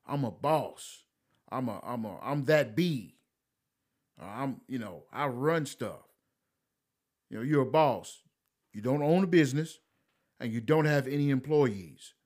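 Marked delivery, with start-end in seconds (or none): 0.1-6.1 a hint of a bragging woman, softer; mock bragging woman. Mocking women who claim to be bosses, soft sneering mimicry. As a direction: lightly mimic a woman boasting she's a boss. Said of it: "Women talk like that".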